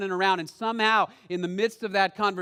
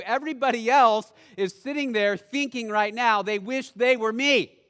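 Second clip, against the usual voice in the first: indignant protest; 3 semitones higher, 6 dB louder than usual. Acted. Peter protesting to Jesus.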